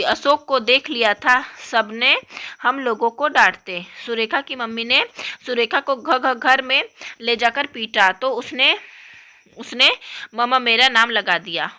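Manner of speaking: lightly voiced upset young girl; upset little girl. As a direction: complain like a hurt kid.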